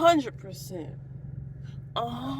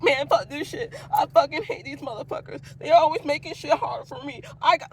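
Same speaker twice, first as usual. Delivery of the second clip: higher, whiny fake-cry griping; mock crying complaint; 4 semitones higher than usual. Acting out someone griping at work, mock tearful. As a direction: whine it like a pretend tearful worker. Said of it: "Cry about it while you work".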